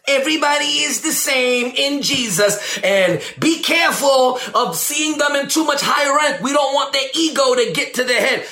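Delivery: a lightly put-on cautious preacher voice; mocking another preacher. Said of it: "If you on this".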